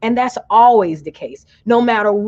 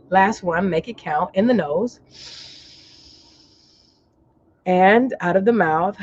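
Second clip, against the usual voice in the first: guided relaxation. Real, not acted. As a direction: lead them gently through each breath. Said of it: "relax your forehead".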